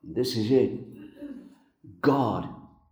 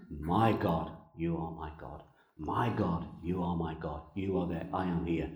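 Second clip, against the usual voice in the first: hushed prayer; 4 semitones lower, 7 dB quieter than usual. Acted. Voicing Jesus' inner prayer.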